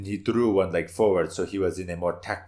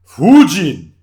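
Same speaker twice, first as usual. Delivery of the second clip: dramatic shout; 9 semitones higher, 17 dB louder than usual. Acted. Warrior dramatically names a god.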